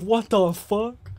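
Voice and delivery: slow, drawn-out neighbor's disbelief; baffled neighbor. Acted. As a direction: play the neighbor, stretching it out in bafflement. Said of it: "He's like".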